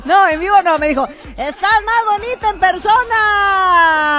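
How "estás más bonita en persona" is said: quoted fan. Retold or imitated. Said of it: "Así me gritó".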